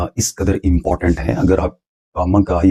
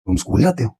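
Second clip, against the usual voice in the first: higher, जाते rising; stress on जाते; 5 semitones higher, faster than usual. Shown as a demonstration. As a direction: lean on जाते in the question. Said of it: "मैंने stress के साथ".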